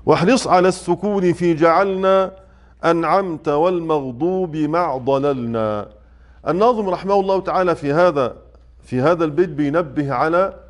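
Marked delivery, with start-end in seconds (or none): 0.1-5.9 slow, measured chanting of the verse; verse recitation. Shown as a demonstration. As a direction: recite the poem line slowly and evenly. Reciting the next verse of the poem.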